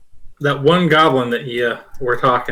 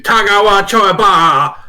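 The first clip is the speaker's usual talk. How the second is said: goblin cry; 6 semitones higher, 6 dB louder than usual. Acted. GM voices the goblin.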